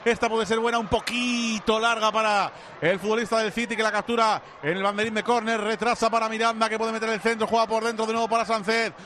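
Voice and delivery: continuous, evenly pitched football commentary; live play-by-play. Real, not acted. Radio commentator follows Spain's passing move, live play-by-play. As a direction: keep the call rolling pass after pass.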